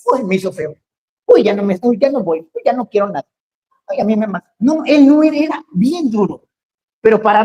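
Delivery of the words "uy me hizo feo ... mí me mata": mock the touchy member who takes offence; whiny offended church member. Preacher mocking a touchy member taking offence, sulky whine. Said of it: "como algunos".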